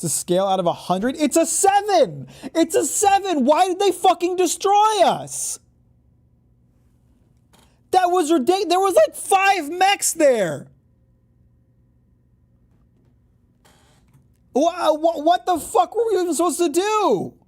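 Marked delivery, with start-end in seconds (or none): 1.2-2.3 outraged shriek. Real, not acted. Outraged after losing a level seven. 2.5-17.4 outraged high rant. Real, not acted. Ranting after losing to the mechs.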